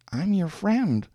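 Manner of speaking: high, fragile tender voice; tender, frail. A narrator's reading. Woman turns her cheek to man, tender and frail. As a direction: offer it gently, high and frail. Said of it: "whispered in a voice full of tenderness and frailty".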